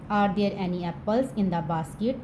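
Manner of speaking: slow, even, word-by-word reading; slow model sentence. Shown as a demonstration. Teacher reads the English sentence slowly to students. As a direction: read it out slowly for the class. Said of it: "teacher reads model sentence".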